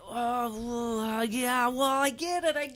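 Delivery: put-on a light New York accent, rising; playful New York fan accent. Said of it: "Say it in a New York accent".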